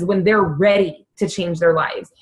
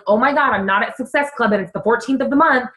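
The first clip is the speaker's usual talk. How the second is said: freaking out; faster than usual. Retold or imitated. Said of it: "I was freaking out".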